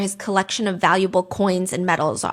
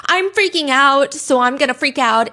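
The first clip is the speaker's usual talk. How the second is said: mock frantic; 4 semitones higher, 4 dB louder than usual. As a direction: imitate someone panicking, slowed down. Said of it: "a sense of dramatic franticness".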